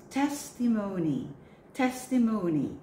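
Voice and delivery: testimony stressed on TES; testimony with the accent on the first syllable. Shown as a demonstration. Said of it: "Take note of the accent of this word".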